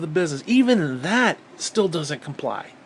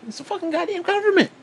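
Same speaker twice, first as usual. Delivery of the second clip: pitched-up furious yell; 13 semitones higher than usual. Real, not acted. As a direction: yell it at the top of your range. Angry rant at politicians.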